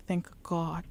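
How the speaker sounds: a whispered thank God of relief; relieved whisper. Retold or imitated. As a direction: breathe it out as a whisper. Relieved thought on arrival.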